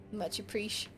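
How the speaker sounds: breathy whispered thanks; gasp, then whisper it. Real, not acted. Thanks in a hush.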